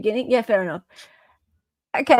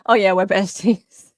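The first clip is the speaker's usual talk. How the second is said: sarcastic besties. Pretend. Sarcastic echo.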